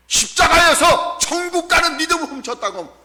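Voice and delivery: high, shouted preaching repeat; forceful proclamation. Retold or imitated. Same quote repeated at full force. (높은 소리로 힘껏 외치듯)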